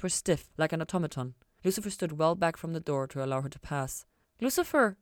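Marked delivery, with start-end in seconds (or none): 4.4-5.0 raised, higher call across the room. A narrator's reading. Ella calling after Lucifer, raised high call. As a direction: call him back before he leaves. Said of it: "Ella called to catch him".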